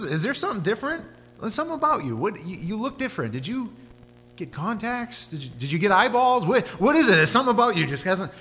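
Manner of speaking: a neighbor gaping at a changed face, voice climbing; amazed neighbor. Acted. Neighbor amazed at healed man.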